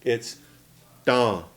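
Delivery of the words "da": DA said out through the nose; nasal vowel. Shown as a demonstration. Teacher shows the word for star, nasalised DA. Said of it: "you say it out your nose".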